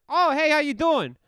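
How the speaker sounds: overly chipper answer; awkward greeting. Retold or imitated. Voices himself answering awkwardly.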